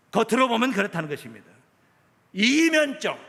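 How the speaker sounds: emphatic pulpit delivery; preacher's measured declamation; preaching. Acted. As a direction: press the point on the congregation. Preaches to congregation.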